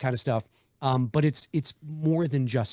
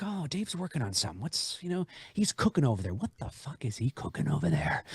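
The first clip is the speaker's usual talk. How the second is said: curious fans; 6 dB quieter than usual. Retold or imitated. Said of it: "just like".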